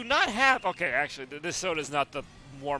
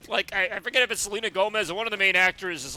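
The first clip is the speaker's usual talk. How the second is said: loud, higher talk through laughter; laughing; 5 semitones higher, 7 dB louder than usual. Real, not acted. Streamer retelling a favourite episode to viewers, laughing. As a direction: struggle to explain while giggling.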